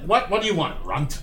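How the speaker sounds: touch of scornful annoyance; irritated customer. Acted. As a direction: round on the little one impatiently. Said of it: "He's like".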